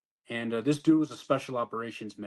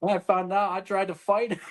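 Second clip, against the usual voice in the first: higher, louder excited telling; excited burst; 8 semitones higher, 5 dB louder than usual. Real, not acted. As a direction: blurt it out half laughing. Laughing retelling of fight.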